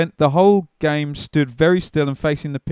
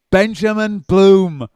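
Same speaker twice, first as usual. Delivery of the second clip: slow, higher-pitched mock Scouse call; attempted Scouse accent; 5 semitones higher, much slower than usual. Stranger calling from a car window, imitated Scouse accent. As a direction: draw out the name in imitation Scouse. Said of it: "this voice goes down, and he goes".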